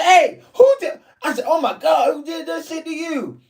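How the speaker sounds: high shocked cry through laughter; half laughing, half horrified. Retold or imitated. Reacting to the wounds, a high cry breaking into laughs. Seeing the bruised face.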